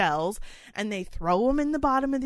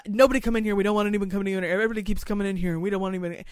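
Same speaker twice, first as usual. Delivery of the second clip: rude; much faster than usual. Retold or imitated. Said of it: "they were being rude".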